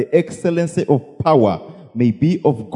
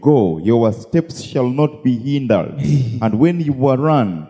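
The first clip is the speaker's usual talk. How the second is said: scripture reading; 2 semitones lower than usual. Acted. Interpreter reads out scripture.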